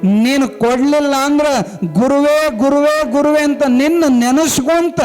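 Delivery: retold vow, insistent and rising in pitch; defiant challenge. Disciple challenges his guru to appear or he will die, acted defiance. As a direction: act out a stubborn devotee daring his guru. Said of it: "ಸವಾಲ್ ಹಾಕ್ತಾನ".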